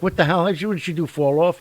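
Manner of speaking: high, loud mock bewilderment; crowd's shocked reaction. Onlookers react to the cheerleader leaping off, mock shocked. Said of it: "Everybody's like".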